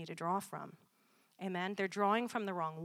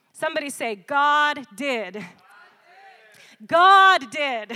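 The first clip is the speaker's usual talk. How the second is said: loud preaching shout, higher; call and response; 6 semitones higher, 14 dB louder, slower than usual. Real, not acted. Preacher calling the congregation to say God did, loud. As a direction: rouse the crowd to answer.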